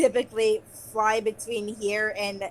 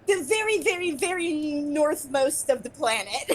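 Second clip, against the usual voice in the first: high, dreamy faraway voice; airy dragon voice; 4 semitones higher than usual. Acted. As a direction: say it like pointing off the map. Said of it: "and then she just says".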